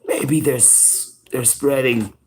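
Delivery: unvoiced, secretive child's whisper. Dad imitates his son's hushed covid theory, whispering. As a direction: breathe it like a secret. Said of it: "And he whispered".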